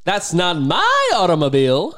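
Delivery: a light, lilting John Mulaney voice, drawn out a little; hint of John Mulaney, said slowly and carefully; John Mulaney impression. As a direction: lightly imitate John Mulaney's sing-song delivery. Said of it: "Give me John Mulaney saying".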